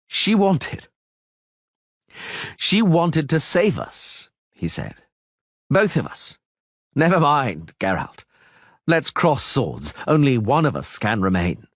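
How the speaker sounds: grimly resolved to duel; Istredd, bitter and tense. Acted. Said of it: "narrator voicing Istredd".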